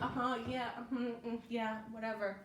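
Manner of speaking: distracted uh-huh, trailing off; half-listen and dismiss it; a hint of an uninterested listener; bored brush-off. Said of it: "they're like".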